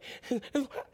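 wordless mock crying heaves; soft, choked imitation of sobs; imitated sobbing. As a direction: act out crying too hard to speak. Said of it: "crying so much she probably is like".

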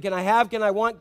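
put-on whiny repeated asking child; pestering child. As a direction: nag like a small child. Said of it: "it's constant".

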